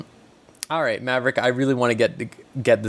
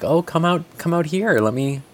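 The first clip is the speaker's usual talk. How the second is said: luring voice; 6 semitones higher than usual. Retold or imitated. Mocking RuneScape player luring.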